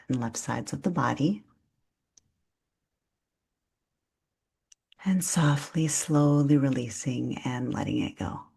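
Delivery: calm, unhurried breath-awareness guidance; soothing yoga nidra instruction; guided meditation. Real, not acted. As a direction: guide them gently through noticing the breath, leaving long pauses.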